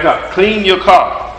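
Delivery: slow, drawn-out plea to clean your car; slow imploring request; slow mock plea. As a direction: stretch out the plea to God. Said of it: "You're like".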